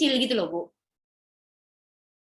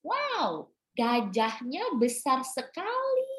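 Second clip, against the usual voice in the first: slow, softer, with lips wide open on every word; doctor shows the exaggerated lip movements, quieter this time; exaggerated mouth movements; 3 semitones higher, 4 dB quieter, much slower than usual. Shown as a demonstration. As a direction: mouth each word big and slow for the child. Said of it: "gerakan bibirnya itu juga lebay".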